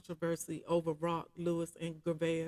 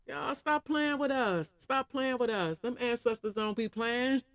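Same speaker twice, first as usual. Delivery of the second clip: hyped; 5 semitones higher than usual. Real, not acted. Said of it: "hyped about ancestors".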